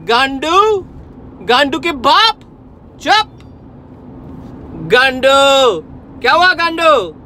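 real rage at a scammer on the line; furious shouting. Real, not acted. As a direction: scream insults down the phone. Cursing out the scam caller.

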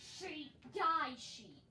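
excited yell at an animal. Real, not acted. Player attacks a sheep for a bed, yelling. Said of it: "Why are you yelling?".

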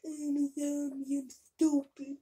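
lightly voiced dumb zombie; slow, dopey zombie drawl. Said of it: "what a zombie sounds like".

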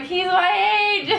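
mock excited squeal. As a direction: replay the shock of finding out, half-crying. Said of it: "I was like".

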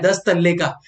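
दस तल्ले said as the Kolkata word for floors. Shown as a demonstration. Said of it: "वो क्या बोलते हैं पता है".

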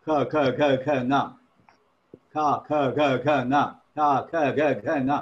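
"kha, kha, nga" made at the throat; sounds from the throat. Shown as a demonstration. Teacher showing where kha is produced, throat sounds. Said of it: "sound will be produced from kantha".

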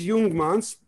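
Jungmanns with J said as Y; German pronunciation. Shown as a demonstration. Man giving his surname as spelled in Germany, German pronunciation of Jungmanns. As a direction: say Jungmanns the German way, "Yoong-mahns". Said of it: "it's pronounced in, uh, in Germany".

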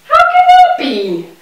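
very high, disbelieving squeak; can't believe the bee fears her; astonished. Acted. Child amazed the bee is scared, squeaking high.

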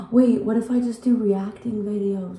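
the lightbulb moment, out loud; sudden excited idea. Real, not acted. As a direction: struck by a new video idea.

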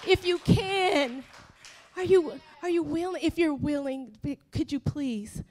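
acted timid begging, fading away; unsure plea. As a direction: ask softly, faltering and restarting. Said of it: "He was so unsure, like".

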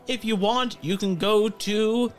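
put-on high, slow old man's query; hard-of-hearing old pirate, stretched out; old blind pirate. Old man answering a call from behind, high slow pirate voice. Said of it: "He goes".

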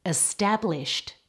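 "Established" ending in a clear T; final T sound. Shown as a demonstration. Teacher models a past tense ending, final T on "Established". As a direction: finish "Established" on a crisp T, not D. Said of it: "getting a T sound on the end".

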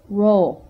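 "row" with a pure o vowel and no oo glide at the end; pure o demo. Shown as a demonstration. Teacher modelling the vowel without an off glide, carefully enunciated. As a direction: clip the glide off "row" and hold a clean o. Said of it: "but without the oo off glide".

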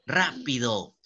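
"Rápido" with RÁ set apart and weighted; stress on RÁ. Shown as a demonstration. Teacher showing an esdrújula, stress on RÁ in "Rápido". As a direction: hit RÁ, then let "pido" fall. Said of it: "Porque rápido es esdrújula".

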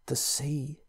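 hushed, near-whispered words; barely whispering. Acted. Pritchard to narrator, a frightened near whisper. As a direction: breathe it out, scared to be heard. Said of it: "he said, barely whispering".

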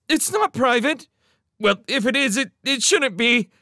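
put-on high, loud child's argument; heated protest. A narrator's reading. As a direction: argue back hotly. Kitty argues back heatedly.

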